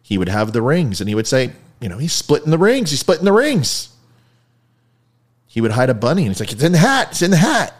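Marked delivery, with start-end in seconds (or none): 2.0-3.9 high, louder parrot call. Retold or imitated. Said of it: "the parrot would call out the secret". 6.5-7.7 high, louder parrot call. Retold or imitated. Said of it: "the parrot would call out the secret".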